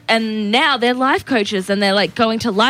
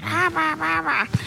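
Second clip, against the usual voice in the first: soft, high nonsense babble; high "bah bah" noises, giving up on the voice; failed Yoda attempt; 6 semitones higher, 5 dB quieter than usual. Host failing at Yoda, high soft mock babble. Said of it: "No, I can't do it".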